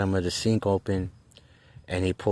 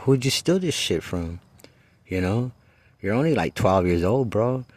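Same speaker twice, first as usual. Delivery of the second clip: exasperated scolding; 2 semitones higher than usual. Retold or imitated. Scolding the young kid.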